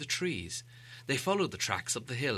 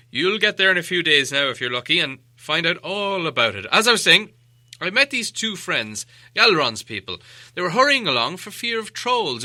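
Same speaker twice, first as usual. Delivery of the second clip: Gandalf the wizard; 3 semitones higher, 10 dB louder than usual. A narrator's reading. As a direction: explain yourself like a patient wizard. Gandalf voiced in story.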